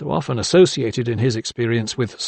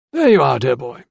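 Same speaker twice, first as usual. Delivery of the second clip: greeting through a mouthful; mouth full; 5 dB louder than usual. A narrator's reading. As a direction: talk round a bite of toast. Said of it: "he greeted through a mouthful".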